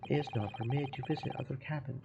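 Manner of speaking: a hint of a Russian accent, gruff and proud; broken-English Russian sailor. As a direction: play the touchy ship's guard, lightly accented. Guard refuses the visit.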